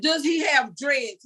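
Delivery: slow, desperate shouted question; retold yell. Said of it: "so I'm screaming and yelling".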